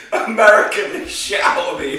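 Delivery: loud, high mimicking shout; mock scream. Friend parroting the storyteller's outburst, mock screaming. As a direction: shout the catchphrase back through laughter. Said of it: "I was just screaming".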